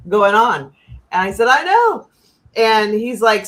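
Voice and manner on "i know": imitating a high, loud emphatic I know; exasperated agreement. Retold reply to the client's bomb fear, high and loud. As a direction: throw up your hands vocally, much higher.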